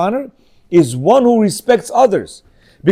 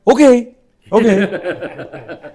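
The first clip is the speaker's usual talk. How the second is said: put-on eager kids; 3 semitones higher, much slower than usual. Children agreeing to the candy game, eager and laughing. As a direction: play the kids jumping at the game. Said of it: "They're like".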